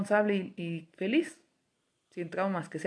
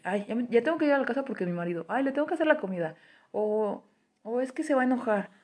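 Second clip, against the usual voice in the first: mock anxious wife; 5 semitones higher than usual.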